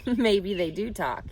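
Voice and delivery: half-teasing, easygoing; Mr. Arable's voice. Acted. Husband gently teasing his worried wife, amused.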